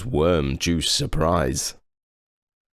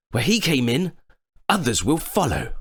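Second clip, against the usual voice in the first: nervous unicorn; 9 semitones higher than usual. A narrator's reading. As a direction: squeak out the warning like a jittery unicorn. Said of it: "he said".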